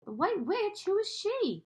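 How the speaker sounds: jolted by a frightening name; startled. Acted. Lucy, startled, asks the fawn who the White Witch is, alarmed.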